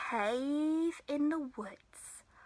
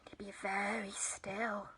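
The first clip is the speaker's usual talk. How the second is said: low, soft near whisper; hushed alarm; 5 semitones lower, 8 dB quieter than usual. A narrator's reading. Everyone must keep still before angry Bear, hushed. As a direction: hush it as if hiding from the bear.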